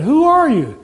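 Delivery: high, hammed-up demand; mock incredulous question. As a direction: pitch the question up in mock disbelief. Climber questions the unknown voice.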